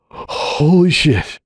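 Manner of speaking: slow, breathy, barely voiced oath; breathed oath. Hoops, holding his son for the first time, breathes it out. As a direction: breathe it out in disbelief. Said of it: "he breathed again".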